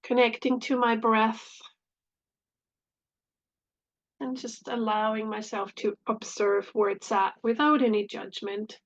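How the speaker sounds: calm meditation voice with long pauses; unhurried phrases with space between them; guided meditation. Real, not acted. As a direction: lead gently into the breath, leaving long silences.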